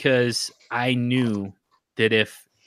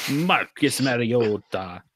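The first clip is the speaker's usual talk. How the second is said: slow, drawn-out Marcus Mariota in a light Italian accent; mock Italian accent; slower than usual. Shown as a demonstration. Host mimics the Italian name bit, lightly accented. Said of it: "I'm still doing it while I'm saying".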